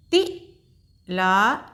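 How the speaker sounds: तिलक stretched very slowly, each syllable held long; slow teacher blending; slow sounding out. Shown as a demonstration. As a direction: draw out तिलक for a learner. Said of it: "एक बार फिर से दोहराते हैं".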